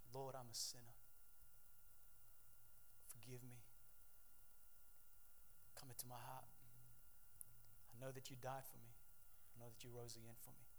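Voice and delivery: soft, low deathbed prayer; hushed prayer. Real, not acted. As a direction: pray it softly beside the bed. Praying at a deathbed.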